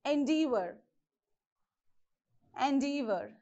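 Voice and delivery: Endeavor with no stress on the first syllable; enDEAvor, weight on the D syllable of Endeavor. Shown as a demonstration. Teacher showing how to stress Endeavor, second-syllable stress. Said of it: "You have to stress from D".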